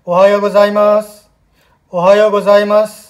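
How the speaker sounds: ओहायो गोजाइमास said out loud from the mouth; loud clear pronunciation. Shown as a demonstration. Teacher to students, showing how to say it: loud and open. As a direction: speak out boldly, not shy. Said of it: "उच्चारण आपने ज़ोर से करना है".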